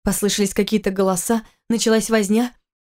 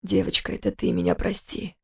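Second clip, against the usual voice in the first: тихий хриплый мужской голос; муж хрипло утешает жену; 6 dB quieter than usual. Acted. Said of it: "ответил он хрипло". (тихо, с хрипотцой)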